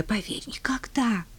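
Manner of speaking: whispered lament; tearful whisper. Acted. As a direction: whisper it in despair. Weeping old lady laments. (шёпот сквозь слёзы)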